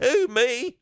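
high cracked Shaggy-like voice; pubescent squeak. Retold or imitated. Startled date answers the woman, in a pubescent squeak. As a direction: squeak it like a twelve-year-old hitting puberty. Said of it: "my voice went back to, I was twelve years old, hit puberty".

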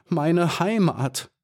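understated acted sob, high and slow; sobbing. Maya mourning her home, slow high mild sob. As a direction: let the word break slowly in mild grief. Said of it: "schluchzte sie".

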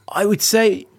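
breathy whisper under the breath; whispered aside. Real, not acted. Impressionist whispers while recalling his first impressions. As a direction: drop to a whisper, musing to yourself.

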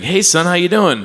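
chirpy imitation of mom calling; playful impression of his mom. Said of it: "she was like".

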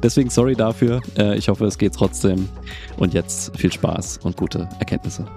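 bad mic sounding like a robot; robotic, badly compressed mic sound. Real, not acted. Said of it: "es hört sich an wie ein Roboter". (Roboterstimme durch falsches Mikrofon)

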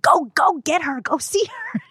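high eager urging; urgent pushing. Retold or imitated. Mother urging her husband to go to the newborn, high and eager. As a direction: shoo him toward the baby.

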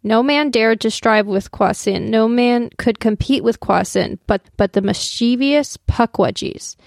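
slow, measured poem recital; poem reading. Acted. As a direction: read it like a solemn old poem. Reads the Longfellow poem aloud.

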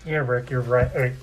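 talking through a face mask; muffled through mask. Real, not acted. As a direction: speak muffled behind a mask. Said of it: "let me take my mask down here".

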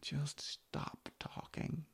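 slow, soft whisper to himself; whispered self-order. Real, not acted. Podcaster quietly ordering himself to stop, whispered. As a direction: hush yourself, drawn out. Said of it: "telling himself to stop".

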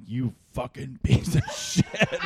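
slow insult broken by a laugh; laughing mock insult. Comic mocking the realtor heckler, laughing while he swears. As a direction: sneer the words and laugh through them.

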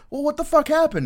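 high, loud squealing demand; exasperated first sergeant. Retold or imitated. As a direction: boss at wit's end. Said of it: "it's just like".

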